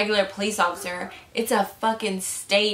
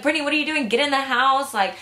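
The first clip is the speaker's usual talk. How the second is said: higher-pitched imitation of a scolding mom; retold mock yell; 4 semitones higher than usual. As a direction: mildly mimic mom yelling, voice raised in pitch. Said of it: "she started screaming at me".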